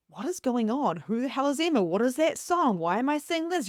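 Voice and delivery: rising, bewildered mock questions; going nuts. Self-questioning about signs and songs, mock bewilderment. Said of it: "You feel like you're going".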